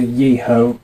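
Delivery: Yeho said "YEE-ho"; long "yee" opening on Yeho; rejected name form. Shown as a demonstration. Teacher citing the form to replace, Yeho said with a clear "yee". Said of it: "many of us also believe that really".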